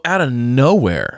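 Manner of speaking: ordinary talk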